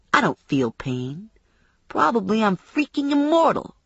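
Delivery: taunting tough guy, lightly played; mildly threatening boast with rising and falling pitch; lightly voiced cocky menace. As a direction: swagger a little, as if untouchable. Attacker taunts bounty hunter.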